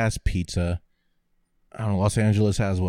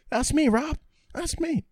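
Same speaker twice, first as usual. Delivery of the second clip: much higher, quieter mock old man voice; lonely old cheesesteak man; 3 dB quieter than usual. Old cook calling out to be noticed, high and thin. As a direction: pipe it up like an old man waving for attention.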